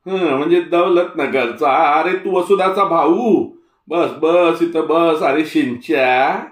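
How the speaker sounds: put-on an old villager suddenly recognising the boy; old Tatya, warming up. Old Tatya greets warmly.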